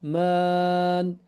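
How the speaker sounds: Ar-Rahman with the second a held two counts; long vowel. Shown as a demonstration. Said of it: "This is two count longer".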